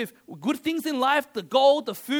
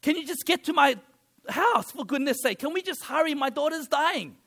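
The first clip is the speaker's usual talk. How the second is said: higher, hurried plea, a touch annoyed; father urging Jesus to hurry home, mildly impatient; impatient Jairus; 4 semitones higher than usual. Retold or imitated. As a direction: press him to hurry, mildly exasperated. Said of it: "I would be so annoyed".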